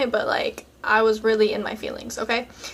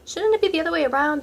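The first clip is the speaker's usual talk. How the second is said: surprised; 5 semitones higher, faster than usual. Retold or imitated. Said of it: "which I was surprised".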